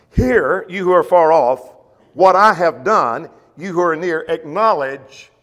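loud, slowed reading of Hear you who are far off; loud scripture proclamation. Acted. Preacher reading God's summons to the congregation, loud. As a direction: call it out across the hall.

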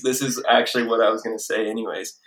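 put-on New Jersey accent. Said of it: "your best New Jersey accent".

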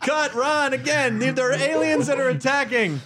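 exasperated film director. Acted. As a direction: call out to stop the take. Director halting the take again.

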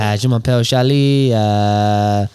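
hesitant mock-French accent. Trying the mechanic plug in French, French accent. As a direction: stumble through put-on French. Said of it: "in French".

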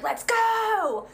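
high, loud hyped-up yell; whooping like someone jumping up and down; excited cheer. Retold or imitated. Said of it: "is so excited he's jumping up and down".

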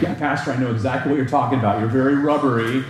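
fast, laughing mock listener teasing the pastor; teasing congregant. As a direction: rattle it off as a cheeky churchgoer.

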